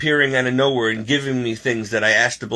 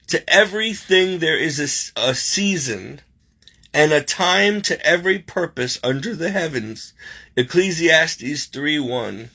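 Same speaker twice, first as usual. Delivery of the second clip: measured, deliberate verse reading; scripture reading; 4 semitones higher than usual. Real, not acted. Reading the verse at the card's bottom to viewers, measured. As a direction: read the verse out with care.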